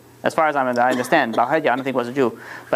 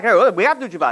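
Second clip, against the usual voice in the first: higher, insistent retort in a retold fight; mock screaming back; 4 semitones higher, faster than usual. Husband screams back at wife, mild mock yell. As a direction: imitate a husband arguing back, only mildly raised. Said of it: "he's screaming back".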